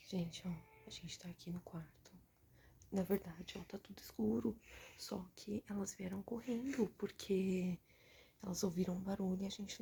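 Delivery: hushed unvoiced whisper; library whisper. Real, not acted. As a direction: whisper to the camera in the dark. Filming in dark bedroom, whispering. (sussurro no escuro)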